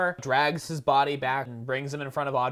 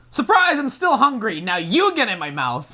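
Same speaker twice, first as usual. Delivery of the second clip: taunting plant; 3 semitones higher, 3 dB louder than usual. Retold or imitated.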